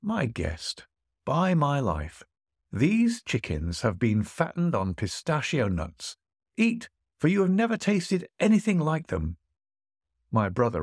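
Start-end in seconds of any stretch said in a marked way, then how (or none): 0.0-9.4 a boastful host, a touch higher; puffed-up host pressing food on his guest; hint of a lordly host, mostly in the reader's voice; lightly voiced host.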